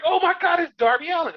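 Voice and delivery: high, loud hammed-up gasp of discovery; mock shock. Mocking commentators pretending to be surprised, hammed-up. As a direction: play it as a fake big reveal. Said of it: "They're like".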